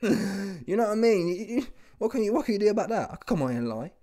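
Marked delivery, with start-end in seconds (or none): 0.0-2.5 laughing. Real, not acted. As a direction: chuckle while you speak. Laughing at Eddie's game.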